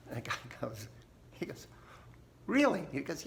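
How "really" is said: high mock-disbelieving "Really?"; incredulous. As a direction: play it as a doubtful farmer. Farmer doubting the official.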